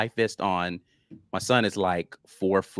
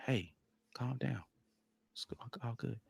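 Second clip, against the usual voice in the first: much softer, calming voice; soft soothing words to a worried wife; soothing hush; 15 dB quieter than usual. Retold or imitated. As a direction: hush her gently, it's all good. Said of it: "I know she's still gonna overreact".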